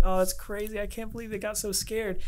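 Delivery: high, put-on amused disbelief; imitating amused manager. Host quoting the manager about the scare, amused and high. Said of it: "She's, like, laughing and she's like".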